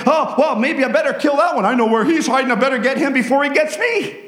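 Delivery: high, frantic soldier thinking aloud; panicked enemy soldier. Acted. Enemy soldier plotting against his comrade, voiced high. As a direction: play the enemy losing his mind.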